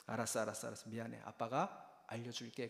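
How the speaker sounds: 부드럽게 달래는 아빠; 조용히 아이를 달래듯이; 다독이는 말투. Retold or imitated. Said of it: "그러면서 다독이면서". (미안해하며 아들을 다독이는 아빠의 부드러운 말투)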